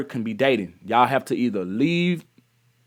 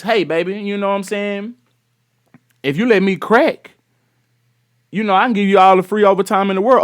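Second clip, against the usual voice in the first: playful come-on, lightly voiced and a bit higher; smooth-talking boss; 5 semitones higher than usual. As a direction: sweet-talk her like a sleazy boss, half joking. Voicing the police chief's offer.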